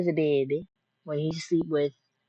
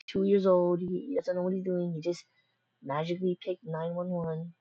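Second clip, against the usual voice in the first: lightly imitating a flustered mom pleading with police; panicked mom; 2 semitones higher than usual. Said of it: "my mom panicked and said".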